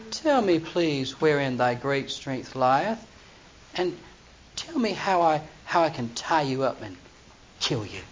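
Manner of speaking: sweet-talking Delilah. Retold or imitated. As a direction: coax him slowly like a temptress. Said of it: "Delilah said to Samson".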